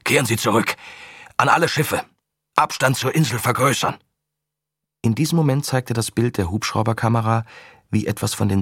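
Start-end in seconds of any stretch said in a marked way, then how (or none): 0.0-4.0 commanding. Acted. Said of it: "befahl Korodin".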